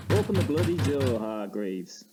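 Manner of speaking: annoyed. Acted. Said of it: "his clear annoyance".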